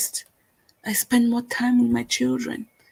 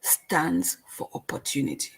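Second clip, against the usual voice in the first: whispered; 7 semitones lower, 9 dB quieter than usual. Acted. Host to viewers, whispering the hopeful meaning. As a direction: drop to a hushed whisper. Host ends metaphor softly.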